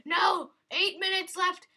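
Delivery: high, urgent cry; high-pitched game panic; panicked outcry. Real, not acted. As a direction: exclaim as time runs out. Time running out in game.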